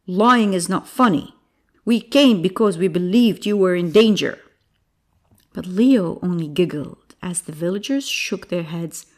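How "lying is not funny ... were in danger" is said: stern, emphatic scolding; louder, each point driven home; firm. Acted. Old farmer scolding the lying boy, firm. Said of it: "he said firmly".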